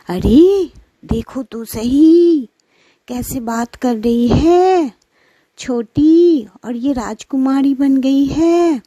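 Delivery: jealous mother shooing her daughters off; scolding mother. Acted. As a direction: nag the lazy daughters out the door.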